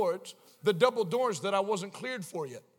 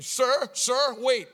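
raised, urgent call; calling after someone; 5 semitones higher, 5 dB louder, much slower than usual. Retold or imitated. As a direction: call out to stop someone walking off. Cubicle man calls after him.

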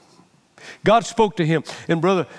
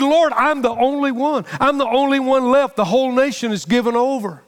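higher-pitched complaint to God; lightly acted, insistent lament; mild protesting plea; 5 semitones higher than usual. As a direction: plead your case as the lone prophet. Acting Elijah's complaint to God.

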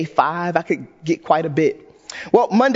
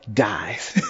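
deadpan; 10 semitones lower, 5 dB quieter than usual. Retold or imitated. Device dying punchline.

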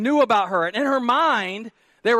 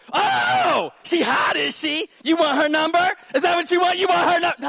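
high, shouted comic outrage; hammed-up jealous interrogation; jealous wife exploding; 8 semitones higher, 4 dB louder than usual. Wife to husband who called her hot, mock furious shouting.

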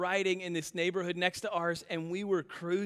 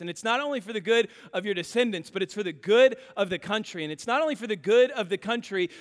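preaching build-up through repeated lines; building sermon. Acted. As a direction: climb line by line like a preacher.

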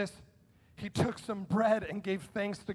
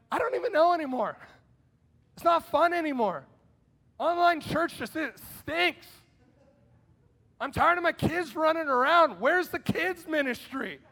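higher, whiny complaining church member; mock frustrated churchgoer; 4 semitones higher than usual. Preacher mimics a congregant tired of online church, whiny. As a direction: play up the fed-up member's gripes.

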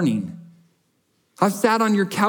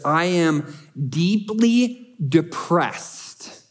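a sombre, slow confession of depression; heavy, slow reading; much slower than usual. Acted. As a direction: drag out each word, weighed down. Reading a depressed psalm verse.

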